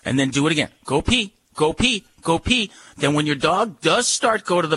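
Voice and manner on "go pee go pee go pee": command demo. Shown as a demonstration. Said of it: "you say it three times".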